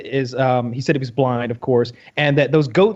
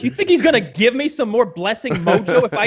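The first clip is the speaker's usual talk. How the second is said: higher, incredulous mock protest; indignant refusal; 4 semitones higher than usual. Father refusing to go ask God, indignant. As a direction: play an exasperated father refusing outright.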